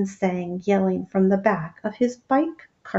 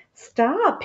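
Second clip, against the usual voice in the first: yelled; 8 semitones higher than usual. Acted. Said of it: "he yelled".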